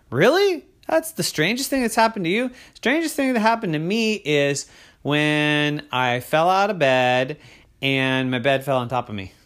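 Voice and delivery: loud, high, chatty dragon; cheerful know-it-all dragon. Acted. The unseen cloud dragon boasts to Crystal, loud and high. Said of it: "heard a voice that said".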